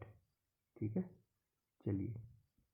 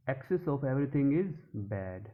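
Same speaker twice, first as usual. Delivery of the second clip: slow example read; 2 semitones higher, much slower than usual. Shown as a demonstration. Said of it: "example देखते हैं".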